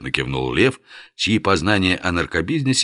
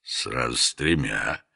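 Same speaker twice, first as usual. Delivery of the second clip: seductive purr; slower than usual. Acted. Boasting of harem exploits.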